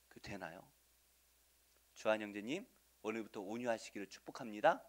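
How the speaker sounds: ordinary delivery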